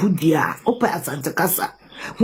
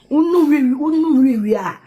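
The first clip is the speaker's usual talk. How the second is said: angry outburst; 4 semitones higher, 4 dB louder than usual. Real, not acted. Angry rant at pastor.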